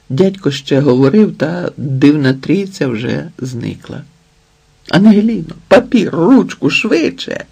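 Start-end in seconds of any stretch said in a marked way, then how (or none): 4.9-7.4 high hurried shouted orders; urgent shout. A narrator's reading. Стас кричить нянці принести папір, нетерпляче. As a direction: bark for paper and pen now. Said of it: "закричав".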